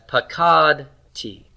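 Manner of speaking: "pakad T" slowly, weight on KAD; stress on root two. Shown as a demonstration. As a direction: stretch KAD in "pakad T", light final tee. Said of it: "the accent is on root two".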